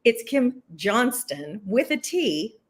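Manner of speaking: Johnston said slowly, with the T sounded; correcting pronunciation. Shown as a demonstration. Guest correcting the host on her surname, Johnston with a clear T. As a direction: spell out the T in "Johnston", slowly and deliberately. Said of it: "I am gonna correct one thing".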